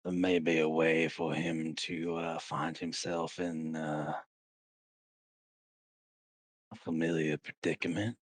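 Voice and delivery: lightly voiced schemer, taking his time; sly sword character. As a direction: draw it out with deliberate pauses. Game master voices a character.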